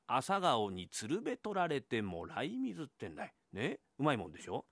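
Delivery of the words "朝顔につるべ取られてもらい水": slow, measured poem recital; reciting a haiku. Acted. Wife recites the famous morning-glory haiku, slow and measured. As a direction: savour each phrase of 朝顔につるべ取られてもらい水 slowly. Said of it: "その時に読んだ歌が".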